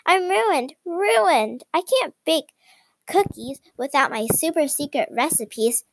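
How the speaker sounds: high, despairing cry; hammed-up storybook panic; frantic wail. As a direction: wail over the lost recipes. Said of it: "Coco Dodo went nuts".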